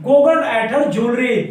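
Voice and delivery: very slow, each word spaced; slow dictation. Shown as a demonstration. Teacher dictating the example sentence slowly. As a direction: read it out slowly for copying. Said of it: "तो she".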